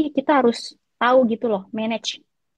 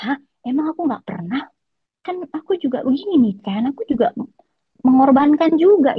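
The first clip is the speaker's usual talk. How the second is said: indignant reply; 4 semitones higher, 3 dB louder than usual. Retold or imitated. Retelling her own indignant reply.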